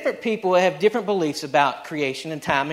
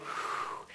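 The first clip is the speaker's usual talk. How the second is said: soft breath out; 15 dB quieter than usual. Retold or imitated. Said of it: "he went".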